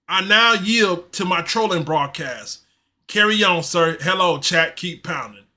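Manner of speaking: slow, lightly put-on servile reading; slave voice. Streamer reading a viewer's super sticker, lightly voiced slave role. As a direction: read it out slowly, lightly in character. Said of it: "in my slave voice".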